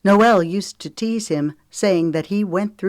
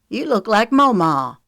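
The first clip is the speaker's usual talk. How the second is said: Milo's line; 5 semitones higher, 6 dB louder than usual. A narrator's reading. Milo voiced in story.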